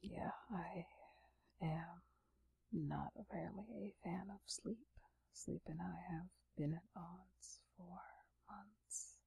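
sleepy late-night whisper. Real, not acted. ASMR whisper throughout.

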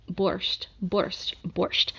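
testing a Russian accent word by word; Russian accent attempt. Shown as a demonstration. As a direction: try out a rough Russian accent. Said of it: "do my terrible Russian accent".

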